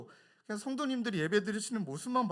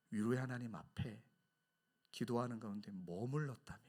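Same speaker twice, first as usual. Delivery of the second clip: ordinary talk, nothing marked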